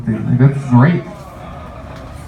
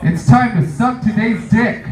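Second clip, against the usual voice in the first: mock kid yell; 6 semitones higher than usual. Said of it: "they would just yell this out".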